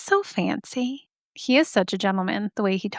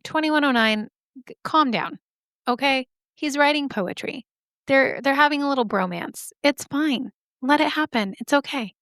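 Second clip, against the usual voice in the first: higher-pitched mock pleading to ease off; placating; 4 semitones higher than usual. Speaker telling the ghost's censor to calm down, higher-pitched and placating. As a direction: talk down an uptight censor in a higher voice.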